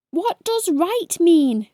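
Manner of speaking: a hint of rising panic; squeaked in panic. A narrator's reading. Confused hedgehog asking ladybird, mild panicky squeak. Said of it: "squeaked Spiky, starting to panic".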